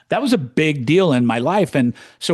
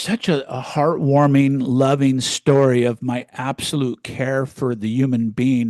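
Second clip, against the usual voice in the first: slow, syrupy mock sincerity, then the truth; mock heartwarming; 4 dB louder, slower than usual. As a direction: lay the fake sweetness on thick. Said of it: "That's complete bullshit".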